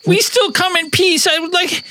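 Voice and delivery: high, strange alien voice. Acted. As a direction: speak like a wounded alien.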